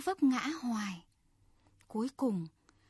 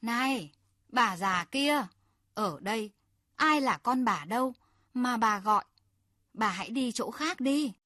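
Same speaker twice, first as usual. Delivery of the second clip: rude boat owner shouting toward the shore, louder; loud scolding; 4 dB louder than usual. Acted. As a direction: brush off the old woman with a loud rude call. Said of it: "ông chủ hướng lên bờ to tiếng".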